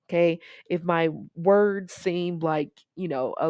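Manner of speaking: talking around a thick new retainer; slightly slurred, retainer in mouth; wearing a retainer. Real, not acted. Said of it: "I just started my retainer".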